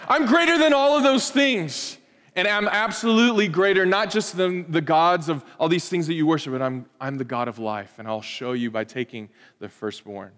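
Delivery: God's declaration. Retold or imitated. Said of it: "God answers ... and says".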